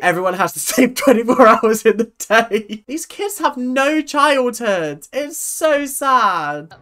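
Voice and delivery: high wail, slowing down at the end; half-laughing lament. Real, not acted. Reacting to overworked dance kids, high wailing lament. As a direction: lament loudly, then draw it out.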